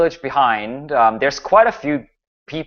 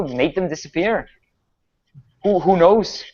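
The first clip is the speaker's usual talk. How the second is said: higher-pitched, hesitant, stammering baron; worried village baron; 4 semitones higher than usual. Acted. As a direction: play a troubled baron fumbling for words.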